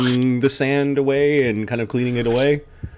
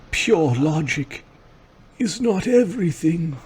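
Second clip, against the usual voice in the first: put-on old man voice; 7 semitones higher than usual. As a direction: lecture gently like an old sage. Old man figure counters the villain.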